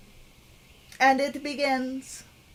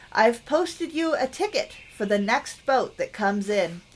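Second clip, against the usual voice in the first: gently performed letter reading; letter read aloud. Acted. Game player reads a grandmother's letter to viewers, lightly acted reading.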